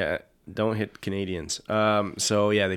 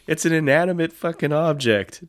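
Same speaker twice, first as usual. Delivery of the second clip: wife's retort; 8 semitones higher, 7 dB louder than usual. Retold or imitated. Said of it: "his wife says".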